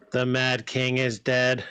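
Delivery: slow, level, deliberate pronouncements; translated character. Acted. Creature sizes up the visitors and questions one, measured. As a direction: intone each phrase evenly, with measured gaps.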